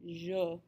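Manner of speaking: "je" said as "zhuh", on its own; isolated, careful French "je"; vowel demo. Shown as a demonstration. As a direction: model "je" with the rounded "uh" vowel. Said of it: "you have that vowel sound".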